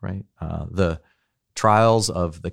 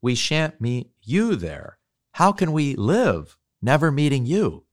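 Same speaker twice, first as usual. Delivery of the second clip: sobbing; 6 semitones higher than usual. A narrator's reading. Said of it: "sobbed Lucy".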